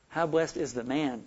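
MAN held a little, with a falling tone; measured reading that settles on MAN; stress on MAN. Shown as a demonstration. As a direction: land the weight on the word man. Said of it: "Emphasizing one word after another".

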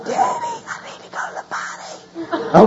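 put-on very high, squeaky kid voice; pleading little child. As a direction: imitate a small child begging in squeaky falsetto. Voices his child waking him.

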